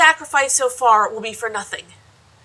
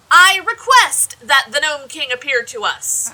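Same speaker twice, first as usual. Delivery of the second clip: louder, exasperated request; irritated loud call; 5 dB louder than usual. Acted. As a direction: snap it out, fed up. Annoyed, repeats the call louder.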